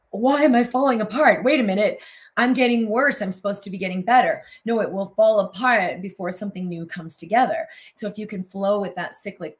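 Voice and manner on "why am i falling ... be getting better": high, loud, anxious questioning; panicked self-doubt. Retold or imitated. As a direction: voice someone fearing they're getting worse. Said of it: "You're like".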